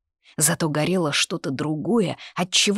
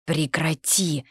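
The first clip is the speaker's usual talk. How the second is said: warning; slower than usual. A narrator's reading. Embarrassed sister warns teaser.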